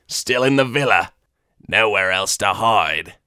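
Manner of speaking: alien eager to please; eager Weequay. Acted. Weequay informant answering.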